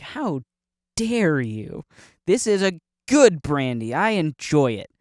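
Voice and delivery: slow, indignant mock protest; mock offended. Brandy drinker answering a critic, mock offended. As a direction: defend it with deliberate, hammed-up affront.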